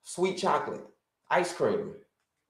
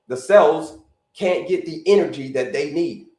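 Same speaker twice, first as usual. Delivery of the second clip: "energy" hit harder than the words around it; stress on energy; 4 dB louder than usual. Shown as a demonstration. Coach repeating the key point to viewers, stress on "energy". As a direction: punch the word "energy" to drive it home. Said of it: "I'm gonna keep emphasizing the word energy".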